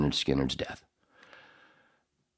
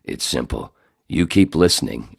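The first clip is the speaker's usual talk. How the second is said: deep announcer voice; 4 dB louder than usual. Retold or imitated. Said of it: "I'm doing my voice as Fadek".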